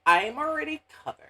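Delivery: lightly voiced valley girl; high breezy airhead brush-off. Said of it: "shakes her water skins and says".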